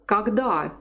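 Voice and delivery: Когда as "kag-DA", stressed last syllable; model pronunciation. Shown as a demonstration. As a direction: clear teacher's Когда, weak o said as "a". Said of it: "we pronounce it as R".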